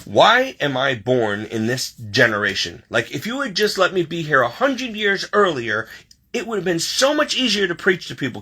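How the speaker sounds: grumbling complaint. Retold or imitated. Retelling a prayer in her room, grumbling at the Lord. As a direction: complain to heaven, worked up. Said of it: "so I'm grumbling, complaining".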